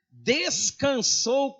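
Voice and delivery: "descansou" stretched out slowly, syllable by syllable; drawn-out, weighty "descansou"; stress on descansou. Shown as a demonstration. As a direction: dwell firmly on the word "descansou". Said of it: "A palavra não é morreu".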